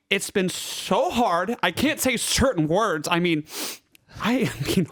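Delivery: a hint of Valley Girl, whiny and dramatic; Valley Girl accent. Valley Girl accent delivering podcast picks to friends. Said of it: "deliver your picks in a Valley Girl accent".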